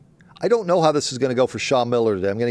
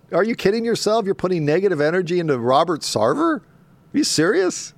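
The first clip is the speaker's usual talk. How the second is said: incredulous; 4 semitones higher than usual. Real, not acted. Host mocking outrage over Sarver.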